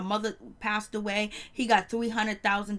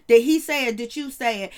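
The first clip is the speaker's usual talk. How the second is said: demanding shout; 6 dB louder than usual. Retold or imitated. Acting Nikki's demand.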